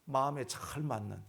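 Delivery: ordinary delivery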